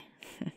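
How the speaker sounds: quiet breathy chuckle; small laugh. Acted. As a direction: let out a brief, soft laugh. Amused after mentioning snowboarding.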